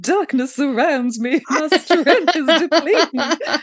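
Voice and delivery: mock a dying Southern Belle, drawn out and theatrical; Southern Belle accent. Lila acting her death scene for kidnappers, mock Southern Belle accent. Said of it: "in her Southern Belle accent going".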